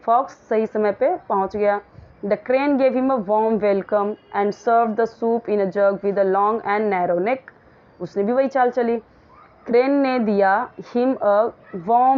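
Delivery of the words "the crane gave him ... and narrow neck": slow, deliberate reading of the English text; measured classroom read-aloud; slow story reading. Acted. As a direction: read each word out slowly for the class. Reads story text slowly aloud.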